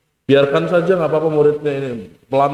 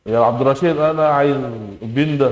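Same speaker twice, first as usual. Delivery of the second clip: put-on Arab accent. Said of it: "orang Arab tuh nggak bisa ngomong P".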